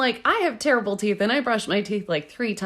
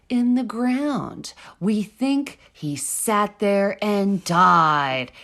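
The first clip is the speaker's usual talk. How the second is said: slow, drawn-out, lightly theatrical read; mock dramatic reading; slower than usual. Shown as a demonstration. Asked by her cohost, she reads the quote with mild mock drama. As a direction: read the quote like a half-hearted ghost story. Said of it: "a dramatic, uh, rendition of this".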